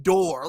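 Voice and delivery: "door" with its final R sounded. Shown as a demonstration. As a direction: say "door" ending on a clear R. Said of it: "when the R is at the end".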